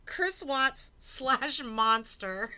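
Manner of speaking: drawn out, word by word; slow reading. Real, not acted. Streamer slowly reads out a viewer's name.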